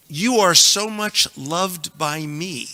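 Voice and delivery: slow loving declaration, You stressed; tender, slow. Shown as a demonstration. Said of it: "loving verse read slowly".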